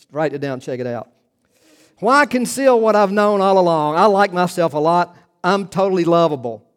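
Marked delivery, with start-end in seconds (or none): 2.0-6.6 louder mock boast; hammed-up self-adoring declaration; mock self-love. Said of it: "she says".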